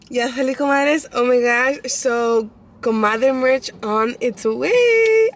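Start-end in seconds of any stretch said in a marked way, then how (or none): 2.8-5.3 slow announcement. Real, not acted. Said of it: "announcing merch".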